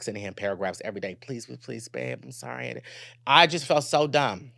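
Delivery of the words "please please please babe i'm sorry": mock begging. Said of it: "I was begging this man".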